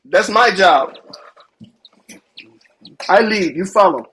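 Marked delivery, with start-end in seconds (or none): 3.1-4.0 talking through a mouthful of food; mouth full. Real, not acted. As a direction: speak around a bite of bratwurst. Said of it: "you talking with your mouth full as well".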